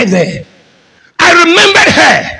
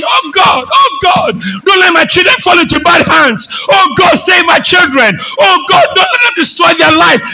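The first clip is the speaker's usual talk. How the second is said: crying mother's prayer; 3 semitones higher than usual. Retold or imitated. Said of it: "Sometimes she'll be crying".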